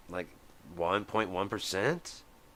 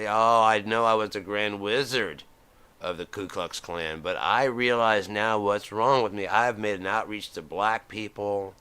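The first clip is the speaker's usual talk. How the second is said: mock earnest politician; 5 dB louder than usual. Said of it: "swearing up and down".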